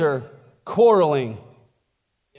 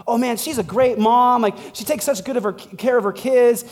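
higher, lightly acted gushing; mock admiring praise; 5 semitones higher than usual. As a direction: imitate someone praising a friend. Voicing someone praising a mother.

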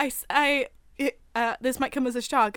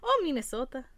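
put-on Minnesota accent, teasing; 4 dB quieter than usual. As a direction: tease with a mock Minnesota "oh". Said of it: "that's not how they talk".

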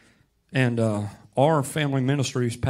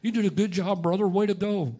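lightly hammed-up pat on his own back; mock self-praise; 6 semitones higher than usual. A preacher congratulating himself in the mirror, hammed-up. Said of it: "preach this in the mirror and then go".

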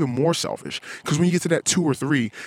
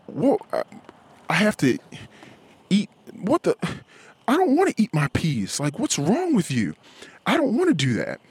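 high, whiny refusal; whiny toddler tantrum; 6 semitones higher than usual. Retold or imitated. Toddler refusing to eat peas, high whiny tantrum. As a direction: whine like a kid forced to eat.

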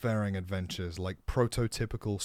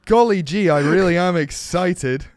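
put-on wholesome 1950s kid; 7 semitones higher, 11 dB louder than usual. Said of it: "Let's wind the clock back".

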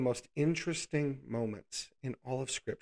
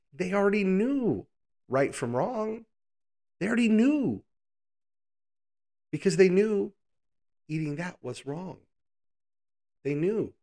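higher and louder, preaching it hard; building emphasis; 6 semitones higher, 5 dB louder than usual. Real, not acted. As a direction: drive the point home with rising force. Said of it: "preaching emphasis".

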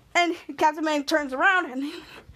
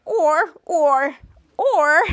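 louder, insistent acted interjections; urgent objection; 6 dB louder, much slower than usual. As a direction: cut in to stop the plan. Shadow objects to ending Chopper.

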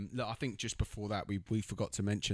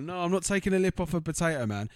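higher, louder mock outrage; mock indignant; 8 semitones higher, 7 dB louder than usual. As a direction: bristle at the insult, hammed up. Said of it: "He's like".

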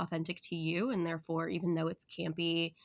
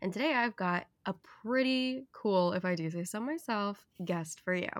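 NPR radio voice. Real, not acted. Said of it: "like, N P R radio voice".

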